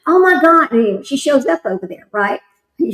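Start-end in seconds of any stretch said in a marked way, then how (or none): 0.1-0.7 retold sister's sudden shock, a bit louder; shocked gasp. Sister hearing their dad has died, shocked outburst. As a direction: blurt it out as the news lands. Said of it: "She goes".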